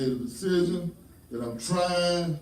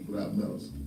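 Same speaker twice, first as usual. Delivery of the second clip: ordinary talk, nothing marked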